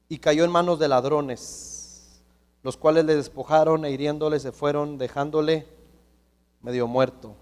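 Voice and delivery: solemn scripture reading. Acted. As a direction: read the passage out to the congregation. Reads scripture aloud.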